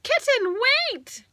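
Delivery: high call on Kitten, fading on wait; shouting. A narrator's reading. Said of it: "they shouted".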